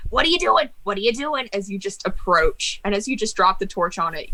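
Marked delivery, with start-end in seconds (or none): 0.1-1.5 mock panicked book shriek, pitched up; a magic book squealing in alarm; screaming book. GM voices the burning book, panicked screech. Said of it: "book just screams".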